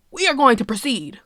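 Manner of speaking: whispered. Retold or imitated. Captain quote ends emphatically.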